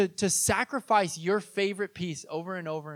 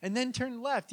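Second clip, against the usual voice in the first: calming dad down; 4 semitones higher, 4 dB quieter than usual. Retold or imitated. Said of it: "And I'm like".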